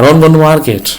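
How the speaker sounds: American-accent demo of casual don't. Shown as a demonstration. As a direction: run it together like an American, "ron go". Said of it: "तो इसी तरह बोलते हैं".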